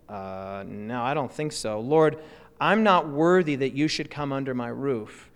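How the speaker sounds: low, hesitant acted refusal; humble demurral. Centurion turns down Jesus' visit, acted low and humbly hesitant. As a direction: hem on a long low "uh", then modestly decline.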